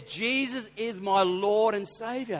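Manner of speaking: slow, emphatic, hint of a German accent; imitated German accent. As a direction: quote a German man slowly and firmly. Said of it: "thick German accent".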